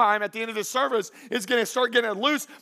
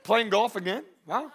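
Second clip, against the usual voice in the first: passive-aggressive. Acted. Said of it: "passive-aggressive comments".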